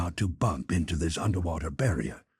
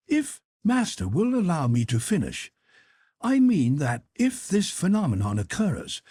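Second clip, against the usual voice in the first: higher, deferential manservant voice; Conseil the servant; 6 semitones higher than usual. Acted. Servant Conseil respectfully objects to his master, in a higher voice. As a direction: play the polite valet objecting gently.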